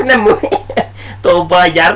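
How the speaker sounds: breaking into a laugh mid-word; a real laugh cracks the reading; real laughter. Real, not acted. Debater laughing at the opponent's claim while reading the quote, genuinely amused. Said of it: "मुझे हंसी आ रही है".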